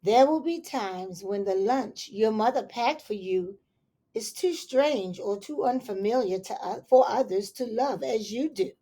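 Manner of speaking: put-on gentle read-aloud to children; story reading. Reading a picture book aloud to children, gentle storytelling.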